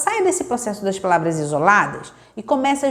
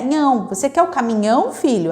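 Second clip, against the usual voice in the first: gentle parent. Retold or imitated. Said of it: "Mas a gente diz sim".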